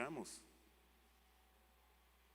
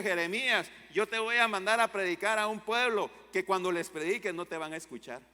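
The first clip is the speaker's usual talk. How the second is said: God calling Jeremiah, raised and preaching; a booming divine call to the prophet; 4 semitones higher, 6 dB louder than usual. Acted. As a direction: proclaim it as God commanding the prophet. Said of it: "Dios le llama a Jeremías y le dice".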